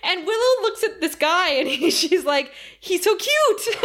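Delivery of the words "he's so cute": high-pitched mock gushing with a laugh; gushing coo. Willow looks at the tiny demon, high delighted coo. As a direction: coo over something tiny.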